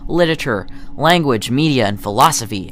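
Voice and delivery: high, loud lecture-hall welcome; enthusiastic professor. Acted. Voicing enthusiastic professor to class.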